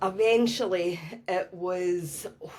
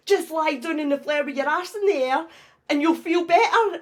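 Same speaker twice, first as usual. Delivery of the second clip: inner voice; 9 semitones higher, 6 dB louder than usual. Retold or imitated. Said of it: "a wee voice in my head".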